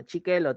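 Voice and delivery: "Chiquelo" as a cutesy lisp of "sí quiero"; imitating baby talk. Teacher imitating partner's baby talk, cutesy. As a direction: babyish "Chiquelo" with ch for s. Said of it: "te dicen".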